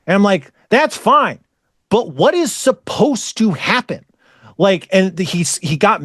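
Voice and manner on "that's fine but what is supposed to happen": higher-pitched, insistent pressing; exasperated. Retold or imitated. Speaker presses an evasive co-worker, exasperated. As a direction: push for an answer, mildly exasperated.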